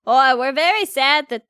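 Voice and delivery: put-on half-landed Canadian accent; hesitant go at a Canadian accent; attempted Canadian accent. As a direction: try a small-town Canadian accent.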